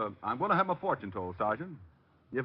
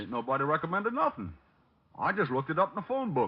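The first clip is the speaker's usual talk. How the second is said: hillbilly put-on; 3 semitones higher than usual. Detective in disguise calling the psychic, country accent. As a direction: play the hog farmer yokel.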